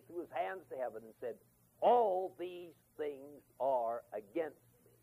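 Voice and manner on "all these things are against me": slow, drawn-out despairing complaint; pessimist's lament. Retold or imitated. Preacher voicing Jacob's despair to the congregation, slow and heavy. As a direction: groan it out like a hopeless old man. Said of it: "The pessimist".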